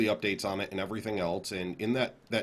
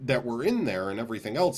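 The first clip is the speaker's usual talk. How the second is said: higher, louder imitation of gawping onlookers; mock excitement; 4 semitones higher, 4 dB louder than usual. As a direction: play an eager crowd spotting a leak. Acting out excited leak-readers.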